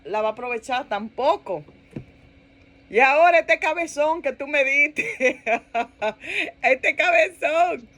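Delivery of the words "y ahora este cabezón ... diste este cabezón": exasperated gripe breaking into laughter; laughing mock complaint. Wife griping to God about her hardheaded husband, laughing mock complaint. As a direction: drag out the last words through a laugh.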